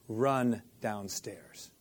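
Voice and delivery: "Run downstairs" said very slowly and firmly, falling; slow command. Retold or imitated. Father commanding his daughter, slow and firm. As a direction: stretch out "Run downstairs" as an order. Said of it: "I looked at her and I said".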